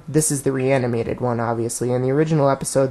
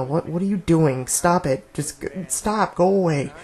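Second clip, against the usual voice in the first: higher-pitched, half-hearted pleading to stop; lightly acted exasperated objection; mild mock protest; 4 semitones higher than usual. Commentator voices Jesse objecting to cocky Nick, mild mock protest.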